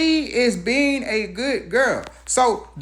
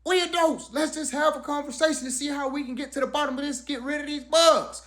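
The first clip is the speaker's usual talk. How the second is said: getting loud; 6 semitones higher, faster than usual. Retold or imitated. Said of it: "So I start to get loud".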